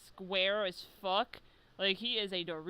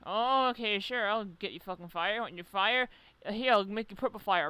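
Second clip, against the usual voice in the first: mock obliging Orochi; 5 dB louder than usual. Orochi voiced granting fire.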